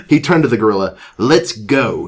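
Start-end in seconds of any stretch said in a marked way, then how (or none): 1.2-2.1 lightly voiced resolve; a touch of storybook bravery. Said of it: "he said in a brave voice".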